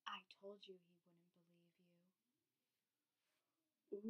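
whispered spooky punchline. Acted. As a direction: whisper it like a monster. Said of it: "my serious, spooky voice".

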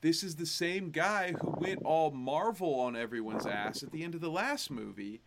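a hint of an impression of an indignant ranter; Jim Cornette. Podcast host griping about the movie, light Jim Cornette impression. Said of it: "in my best Jim Cornette voice".

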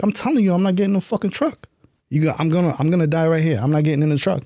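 defiant yell. Retold or imitated. Recruit shouting at instructors he won't quit, high heated defiance. Recruit refusing the truck, exhausted.

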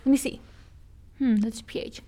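lightly playful inspecting voice, a hint of scrutiny; mock inspector checking. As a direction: mimic someone studying a lipstick colour, with a thoughtful hmm. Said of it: "I was going up to Jonah and I was like".

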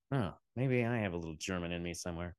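low, soft and quick; muttered aside. Real, not acted. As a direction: drop it under your breath, as if to yourself. Aside to self after remark.

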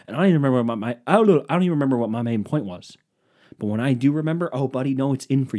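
hammed-up angry rant; mock rant. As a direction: lose it at the audience in a half-joking rant.

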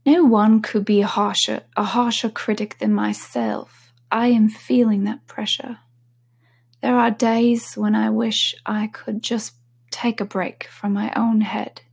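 trying out a British accent for a singer's quote; a shaky go at a British accent; reading the quote in an attempted British accent. Shown as a demonstration. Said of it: "Let me try it".

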